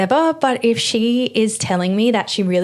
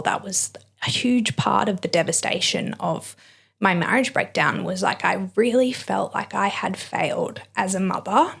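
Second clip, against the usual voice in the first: emotional, close to tears; 4 dB quieter than usual. Real, not acted. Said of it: "Wow, I'm getting very emotional".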